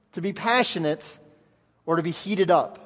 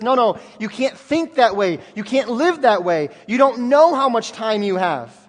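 firm rebuke; 2 semitones higher, 4 dB louder than usual. Acted. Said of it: "Jesus says".

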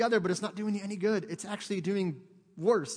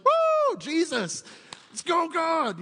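high, loud whooping cheer; on cloud nine; 12 semitones higher, 9 dB louder, much slower than usual. Retold or imitated. Preacher as an elated woman after praying, whooping. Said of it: "she's on cloud nine".

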